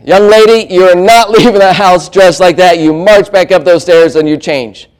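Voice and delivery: lightly mock parental telling-off; stern parent. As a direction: order a teenager about like a parent. Parent scolding teenage daughter.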